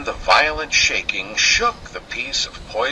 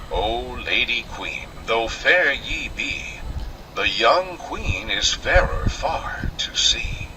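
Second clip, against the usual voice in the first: mirror voice; 3 semitones lower than usual. Acted. Magic mirror answers the queen.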